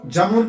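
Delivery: जमलुन squeezed to jam-lun; common misreading. Shown as a demonstration. Teacher quoting how some people read it, जमलुन as jam-lun. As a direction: drop the middle vowel, जमलुन as two syllables. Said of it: "पढ़ते हैं बाज लोग".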